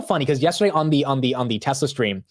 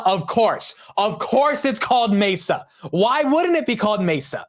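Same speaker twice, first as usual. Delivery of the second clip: mock-outraged, pitched far higher; higher, squeakier exasperation at the word; exasperated rant; 9 semitones higher than usual. Real, not acted. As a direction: rant at your own tongue in disbelief. Exasperated self-mocking rant.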